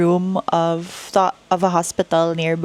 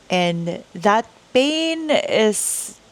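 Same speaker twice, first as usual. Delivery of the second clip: getting emotional; 3 semitones higher, much slower than usual. Real, not acted. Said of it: "Sorry, I got emotional".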